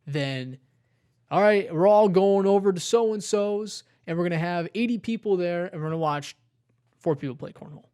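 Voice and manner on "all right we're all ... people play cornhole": hyped-up party bro, fast and loud; mock party bro. Friend mocking frat party hype, loud and fast. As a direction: ham up the excited frat guy.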